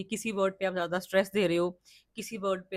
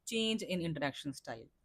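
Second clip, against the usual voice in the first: slow, quiet repeat; 4 semitones lower, 9 dB quieter, much slower than usual. Shown as a demonstration. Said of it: "बच्चे always ये वाले component पे confuse".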